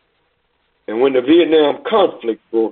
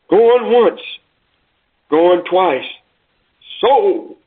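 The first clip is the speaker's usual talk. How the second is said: rising call of an auctioneer closing the sale; auctioneer's call; 4 semitones higher, much slower than usual. Acted. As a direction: ring it out going once, going twice.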